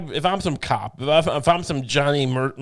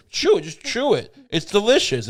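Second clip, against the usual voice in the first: higher, coaxing mock captor; mock coaxing feeder; 5 semitones higher than usual. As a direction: urge the prisoner to eat, playfully. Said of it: "I'm feeding him".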